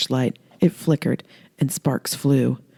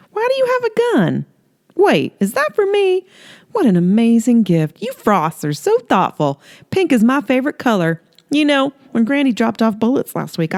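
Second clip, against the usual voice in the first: higher, sing-song flirty southern woman; flirty Holly; 5 semitones higher than usual. Acted. Holly flirting with Earl in her robe, high coy voice. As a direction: coo it up high, teasing him.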